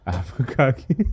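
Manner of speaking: put-on slow, puzzled echo in a French accent; mocked French accent. Band stunned in the van, echoing her French accent. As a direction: repeat it incredulously, mimicking a French accent.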